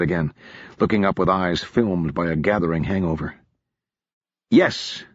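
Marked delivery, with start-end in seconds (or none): 4.5-5.0 snapped. Acted. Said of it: "Marcus snapped".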